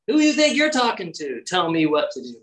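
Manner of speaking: hammed-up offended master; mock indignant rebuke. Imagined Jesus rebuking the official, mock indignant.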